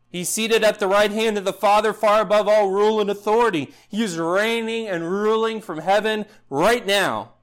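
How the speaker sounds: full-force preaching. Acted. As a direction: preach it with rising fervour.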